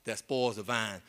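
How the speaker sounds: slow, low reading of the verse; slow scripture quote. Acted. Pastor quoting Song of Solomon to the church, slow. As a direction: lay the verse down slowly. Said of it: "The Bible says".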